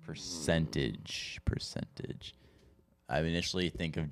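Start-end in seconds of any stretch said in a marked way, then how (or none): 0.0-2.3 whispering. Real, not acted. Musing quietly over the question.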